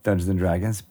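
usual speaking voice

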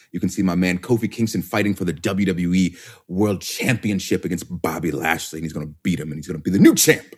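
hyped-up promo read; wrestling promo voice. Acted. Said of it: "we just dropped in a wrestling promo voice".

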